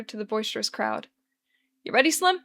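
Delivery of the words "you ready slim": Charlie voice. Acted. Charlie calling Lester over.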